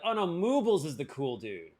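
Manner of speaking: Moobles emphasized as the subject; stress on Moobles. Shown as a demonstration. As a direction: put the weight on Moobles. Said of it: "use inflection or tone to communicate".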